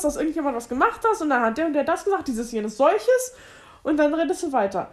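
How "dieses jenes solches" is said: "dieses, jenes, solches" drawn out slowly, word by word; slow imitating. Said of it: "Du erzählst irgendwas".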